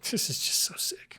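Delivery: awed whisper. Real, not acted. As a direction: breathe it in admiration. Awed whisper about the ship.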